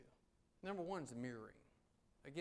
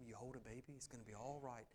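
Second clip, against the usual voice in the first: soothing radio voice; 2 semitones lower, 7 dB quieter than usual. Shown as a demonstration. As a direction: hush it down like a late-night DJ. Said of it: "late-night D J radio voice".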